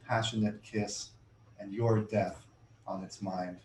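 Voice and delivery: measured, deliberate poem recital; poetry reading. Acted. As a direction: read each line like it matters. Reads the poem aloud.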